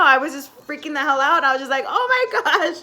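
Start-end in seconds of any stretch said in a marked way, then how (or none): 1.9-2.8 laugh-crying. Retold or imitated. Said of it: "like, crying".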